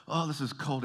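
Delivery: high-pitched mock complaint about the cold; complaining about cold. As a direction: whine theatrically as a freezing visitor. Visitor suffering in Canadian cold.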